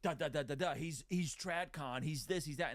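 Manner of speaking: high, slow sneering impression of a critic; mock the outraged online critic; mocking quote. Podcaster mocking critics who call him toxic, sneering. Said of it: "go and say something like".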